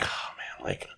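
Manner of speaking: breathy worn-out whisper; tired whisper. Retold or imitated. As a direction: sigh it out, exhausted.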